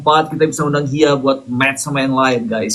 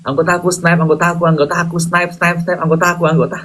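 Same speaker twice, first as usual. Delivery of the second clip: skipping record; 4 semitones higher, faster than usual. Pretend. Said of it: "Kayak kaset rusak ya".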